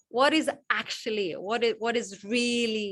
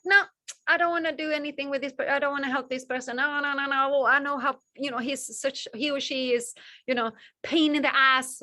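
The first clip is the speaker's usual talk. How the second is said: reluctant refusal; 4 semitones higher, faster than usual. Retold or imitated. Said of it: "close the door and go like".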